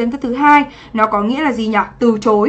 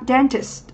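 "dentist" stressed on DEN; stress on first syllable; 5 dB quieter than usual. Shown as a demonstration. Teacher modelling a noun for students, first syllable of "dentist" stressed. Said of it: "trọng âm rơi âm tiết thứ nhất".

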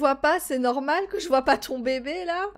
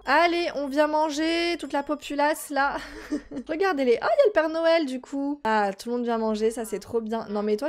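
ordinary delivery

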